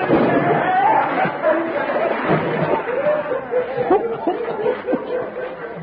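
long helpless high-pitched laugh. Acted. Drenched in trough, laughs.

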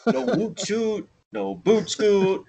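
drawn-out comic Canadian vowels; hammed-up Canadian accent; mock Canadian accent. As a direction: overdo the Canadian oo sounds. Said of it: "his best accent is the Canadian one".

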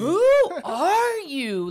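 high, loud, slow, laughing; mock outrage at a screaming stranger; laughing disbelief. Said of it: "And I'm like".

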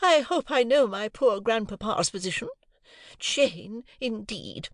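high, lofty, scornful voice; haughty lady. A narrator's reading. Wife scorning little Jane, high and lofty. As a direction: sniff at the very idea.

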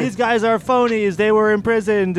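high, sneering doubter; scornful elf voice. Retold or imitated. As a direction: scoff at the newcomers as frauds. Mocking elves at the feast.

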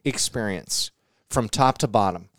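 smooth salesman pitch voice; mock ad read. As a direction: sell it like a commercial.

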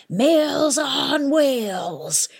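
high, slow, drawn-out pirate howl. A narrator's reading. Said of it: "the pirates howled".

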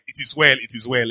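calm front, lightly acted; put-on calm. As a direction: feign composure, letting it drop away. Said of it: "already even have calm faces".

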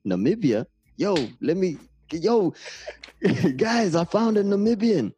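high, loud, excited discovery; hammed-up thrilled stranger; mock amazement. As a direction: announce an astonishing find to your mates. Acts out strangers' amazed reaction.

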